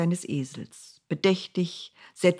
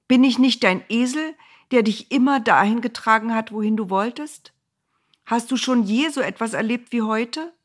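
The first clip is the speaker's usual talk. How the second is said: reproachful donkey; 6 semitones higher, 5 dB louder than usual. Acted.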